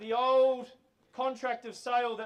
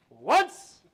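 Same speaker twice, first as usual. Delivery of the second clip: auction call; 12 dB louder than usual. Real, not acted.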